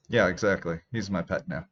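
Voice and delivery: wet clicky mouth noises; talking with wet mouth clicks. Real, not acted. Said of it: "sorry for the mouth noises".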